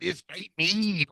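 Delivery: high, slow commentator imitation; mock announcer hype, softened and stretched; Booker T. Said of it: "you over here talking about".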